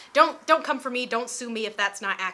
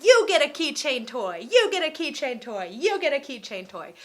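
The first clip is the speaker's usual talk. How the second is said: Oprah giveaway; 4 semitones higher, 4 dB louder than usual. Retold or imitated. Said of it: "like Oprah".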